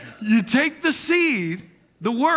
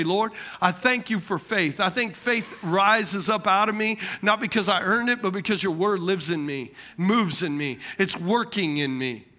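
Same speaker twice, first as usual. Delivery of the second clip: faith-filled prayer; 3 semitones lower than usual. Retold or imitated. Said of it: "you go over to the other side and you say".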